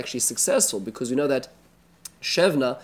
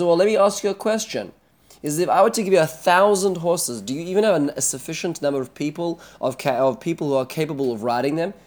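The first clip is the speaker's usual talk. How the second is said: taunting challenge; 2 semitones higher, 3 dB louder than usual. Retold or imitated. Teacher voices Rav Shakeh's taunt.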